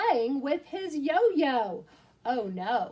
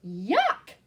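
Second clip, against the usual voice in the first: a louder yuck of disgust; yelled yuck; 2 semitones lower, 4 dB louder than usual. Acted. Yak refusing yogurt, mild mock yell. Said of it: "yelled the yak".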